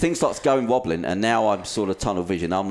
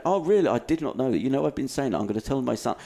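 mock posh delight; 4 semitones higher than usual. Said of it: "so kind and complimentary".

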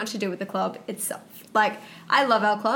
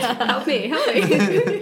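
laughing mock plea; 5 dB louder, much slower than usual.

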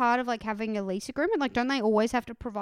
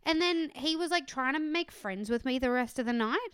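ordinary delivery

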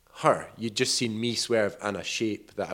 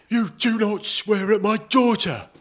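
imitating angry dad; 11 semitones higher, 4 dB louder than usual. Angry parent voiced in story.

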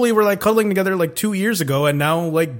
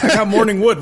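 a quote half-laughed out, a bit louder; laughing through quote; 2 semitones higher, 4 dB louder than usual. Retold or imitated. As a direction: laugh while retelling the line. Retelling a character's line, laughing.

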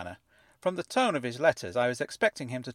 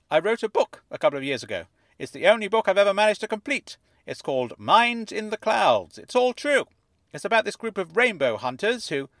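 high, fuzzy voice like it's underwater; fuzzy fish tank voice; 9 semitones higher, 5 dB louder than usual. A narrator's reading. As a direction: speak as if from inside a fish tank. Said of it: "as though he were speaking from the inside of a fish tank".

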